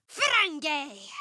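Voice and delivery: spell cry. Acted. Cleric striking an enemy, sharp command. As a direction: bark the spell at the target.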